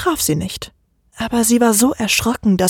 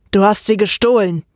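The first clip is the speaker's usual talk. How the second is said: mild hiss. Acted. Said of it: "fauchte ich sie an".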